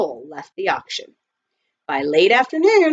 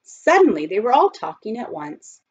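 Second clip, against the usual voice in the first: usual speaking voice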